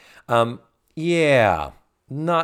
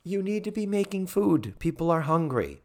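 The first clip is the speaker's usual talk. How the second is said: mock scolding; 8 semitones higher, 3 dB quieter than usual. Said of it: "It's like".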